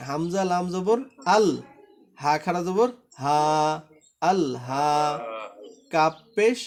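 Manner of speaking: teacher demonstrating the reading clearly; model reading. Shown as a demonstration. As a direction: spell and read it as a model for students. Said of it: "এবার আমারটা শোনেন, মনোযোগ দিয়ে শুনবেন". (ছাত্রদের জন্য নমুনা পড়া)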